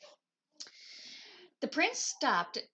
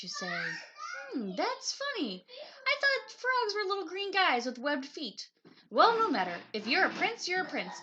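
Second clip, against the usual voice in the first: witch voice; 7 semitones higher than usual. A narrator's reading.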